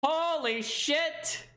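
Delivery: slow, high amazed exclamation. Real, not acted. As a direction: draw it out in awe. Reacting to twist.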